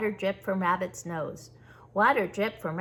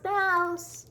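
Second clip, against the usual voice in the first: high calling yell, the second call the louder; 9 semitones higher, 4 dB louder than usual. A narrator's reading. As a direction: call out to a friend across the stump. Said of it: "He yelled".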